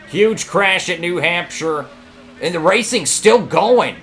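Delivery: loud, high rattled commentary; shaken excitement. Real, not acted. Racer reacting to a huge crash, loud and rattled. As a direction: still buzzing from the crash.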